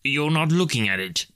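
high-pitched Scrooge voice. A narrator's reading. Scrooge challenging the ghost, high-pitched character voice. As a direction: play a testy Scrooge, pitched well up.

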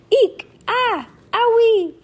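loud, high storybook shrieks; screaming. A narrator's reading. Girls startled at the sleepover, acted screaming. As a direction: squeal it out in acted alarm. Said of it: "The girls all screamed and squirmed".

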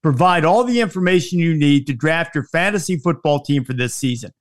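upbeat sponsor read. Acted. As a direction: read it like a podcast ad. Host reads sponsor ads.

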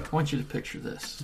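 soft close-mic guided imagery; hushed, like leading a visualization; leaning into the mic. Acted. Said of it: "You wanna lean into the mic on this one".

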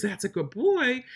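put-on slow, gentle "That's a good boy"; slow praise. Shown as a demonstration. Trainer praising the dog after it finishes, slow and gentle. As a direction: praise him calmly once he's done. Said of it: "Whenever he finishes".

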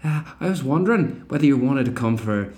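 put-on a faltering Belfast accent; half-hearted Northern Irish accent. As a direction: Belfast accent that slips away. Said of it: "I lost the accent a bit there".

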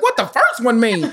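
high-pitched laughing mock confusion; laughing disbelief. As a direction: pile on the questions, cracking up. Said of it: "I was like".

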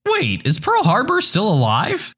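lightly acted, high-pitched confusion; confused student. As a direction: ask it in a lightly voiced student's voice. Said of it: "Student number one".

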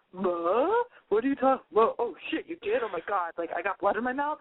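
mock baffled boyfriend, dawning shock; pretend boyfriend. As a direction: play a dopey double take, then let it sink in. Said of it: "he would have been like".

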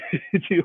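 quick soft laugh; short laugh. Real, not acted. Magician after applauding his volunteer, short laugh.

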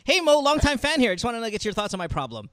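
upbeat radio host read. Acted. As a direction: read it like a call-in DJ. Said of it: "I said it like a regular D J".

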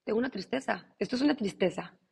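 quiet naming. Shown as a demonstration. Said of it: "reconócela".

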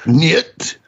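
a hint of a mock Russian accent on Niet; lightly hammed-up Russian no. Cohost joking to host in a mild mock Russian accent. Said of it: "you're speaking Russian".

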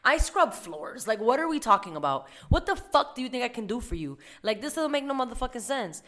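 exasperated rant. Retold or imitated. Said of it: "I'm like".

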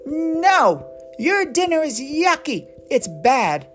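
stomp your foot at dinner; child refusing. Acted. Bubba rejecting his parents' dinner, high protest.

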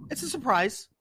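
high, teasing lilt; coy retold reply. Teasing a friend about a secret delivery, coy. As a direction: sing it up high, keeping a secret.

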